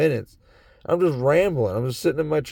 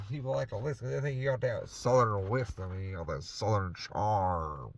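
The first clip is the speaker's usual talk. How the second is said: southern accent; 4 semitones lower, 8 dB quieter than usual. Shown as a demonstration. Explaining southern wisdom to his viewers, in a soft southern accent. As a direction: ease into a folksy Southern charm. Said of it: "I got a southern accent going on right now".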